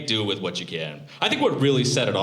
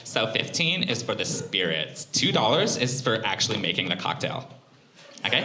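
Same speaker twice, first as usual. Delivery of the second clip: straight-faced bartender. Retold or imitated. Comic imitates the bartender explaining the ice charge, deadpan. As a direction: explain it flatly like it's obvious. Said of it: "with a straight face".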